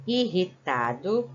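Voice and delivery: Irritado with the double R rolled strong. Shown as a demonstration. Teacher drawing out the strong R for pupils. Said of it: "Olha só a palavra irritado".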